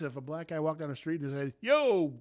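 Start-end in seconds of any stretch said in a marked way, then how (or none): 1.6-2.1 calling out a friend. Retold or imitated. Imitating guy calling on street.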